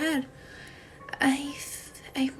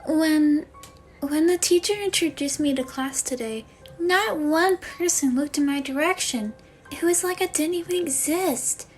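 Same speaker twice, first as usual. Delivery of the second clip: higher-pitched, wounded confiding; hurt new student; 4 semitones higher than usual. Acted. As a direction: confide in Mom like a left-out kid.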